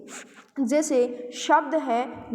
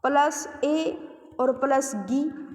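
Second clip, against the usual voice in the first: each piece of the word spelled out slowly; teacher slowly showing the parts of a word; slow breakdown; slower than usual. Shown as a demonstration. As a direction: split खा, ए and गी apart deliberately, one by one. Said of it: "इसमें आप देखो इसको खा".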